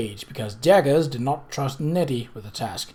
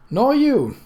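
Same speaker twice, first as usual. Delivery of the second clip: higher, louder stern cut-in; stern interjection; 11 semitones higher, 5 dB louder than usual. A narrator's reading. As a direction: put him in his place. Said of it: "Mott put in sternly".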